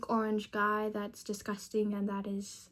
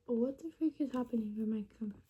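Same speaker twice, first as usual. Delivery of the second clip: worried whisper; 9 dB quieter than usual. Real, not acted. Chromebook suddenly blacks out.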